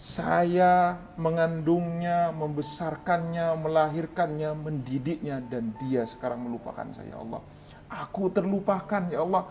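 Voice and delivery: imitated wailing lament, words drawn out; ratapan memelas. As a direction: plead mournfully like a forgotten parent, voice climbing toward the end. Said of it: "Itu merintih-rintih, menangis, Mas Ari". (menirukan orang tua merintih)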